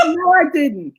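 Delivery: high, loud stubborn denial; husband's denial. Retold or imitated. Husband repeating his denial, high and loud.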